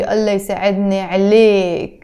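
عليك closed on k, "aleyk"; masculine ending. Shown as a demonstration. Teacher on talking to a guy, masculine "aleyk". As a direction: end عليك on the k, no vowel after. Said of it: "if he's talking to a guy".

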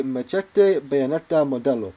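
Machete Bayoneta Modelo in a mock Spanish accent. Shown as a demonstration. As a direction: roll it out like a Spaniard, half-joking. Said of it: "in my best Spanish accent".

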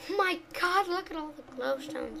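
high excited gasp; thrilled at the find. Real, not acted. Sees glowstones.

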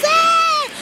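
high playful shriek; squeal. Real, not acted. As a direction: squeal with delight. Playful squeal in ball pit.

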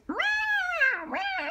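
high, scared little meows; frightened cat. Acted. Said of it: "The cat is frightened".

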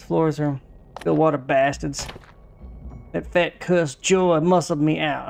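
lightly put-on voice for the game character; voicing the character. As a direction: read his lines half in character, a touch of a grumpy old Western man. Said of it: "I'm still talking like this".

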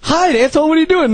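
hammed-up high-voiced heckle; imitated scolding. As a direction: call out the insult in a high voice. Acting out Franz's line.

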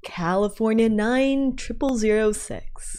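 radio voice. Pretend. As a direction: read it like a radio host. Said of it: "Do your best radio voice".

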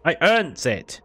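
lightly voiced greedy creature; a hint of Gollum; Gollum-like mock. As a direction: hiss it like a greedy goblin clutching treasure.

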